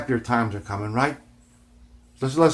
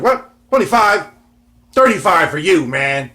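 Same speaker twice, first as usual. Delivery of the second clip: much higher, louder mock haggler; swap-meet seller's scoff, higher and louder; 6 semitones higher, 9 dB louder than usual. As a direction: play the indignant seller raising the price. Seller scoffs at his offer.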